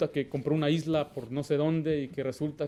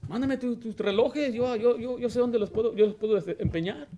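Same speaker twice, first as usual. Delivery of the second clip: higher mock voice of a greedy pastor; 7 semitones higher than usual. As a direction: lightly mimic a grasping preacher asking for rings. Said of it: "Algunos dicen, ¿qué dicen?". (imitación burlona y aguda de un pastor codicioso)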